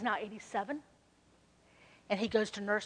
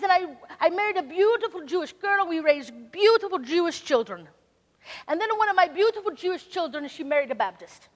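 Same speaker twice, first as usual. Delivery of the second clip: imitating Hank; 4 semitones higher, 6 dB louder than usual. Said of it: "I'm gonna try to imitate Hank".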